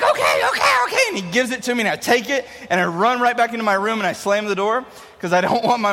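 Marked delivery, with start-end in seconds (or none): 0.0-1.0 put-on high laughing little-kid surrender; giving up. Little brother surrendering the toy, high giving in. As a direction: squeak out a laughing give-up. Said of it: "he's like".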